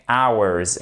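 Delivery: "Hours" slowly, opening straight on the vowel; silent H. Shown as a demonstration. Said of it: "ne se prononce pas". (« Hours » lentement, H muet)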